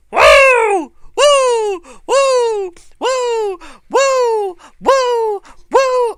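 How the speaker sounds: high, loud repeated Flair woos; Ric Flair woo. Retold or imitated. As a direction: howl it like Ric Flair in the ring. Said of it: "he's like".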